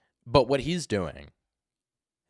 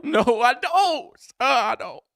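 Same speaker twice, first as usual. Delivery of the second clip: loud, very high whining wail; hammed-up imitation of a panicked suspect; mocking squeaky suspect; 8 dB louder than usual. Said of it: "got the voice going".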